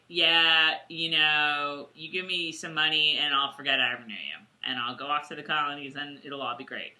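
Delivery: low, offhand dealmaker; Horrocks. Retold or imitated. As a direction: propose the bribe casually, pitched low. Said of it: "so Horrocks is basically like".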